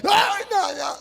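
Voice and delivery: high frightened no no; scared child pleading. Retold or imitated. Neefje weigert het alicate.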